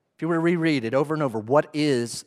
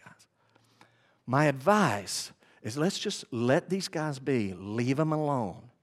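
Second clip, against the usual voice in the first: a soft, soothing voice to the angry council; calming advice; 5 dB quieter than usual. Retold or imitated. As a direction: talk a furious man down gently. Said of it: "what Gamaliel is saying is".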